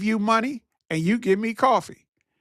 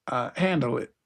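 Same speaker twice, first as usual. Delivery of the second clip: much lower, drawn-down "handle it"; mock low aside; 8 semitones lower than usual. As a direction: drop into a low mocking aside.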